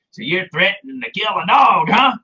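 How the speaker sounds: lightly imitated cocky challenge. Dog catcher just arrived, confronting the dog's accuser, mock cocky. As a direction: put on a bit of swagger as the challenger. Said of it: "he got out all cocky".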